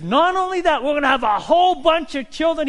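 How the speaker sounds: put-on very high and loud, thrilled old man; excited insistence. Abraham insists to his wife.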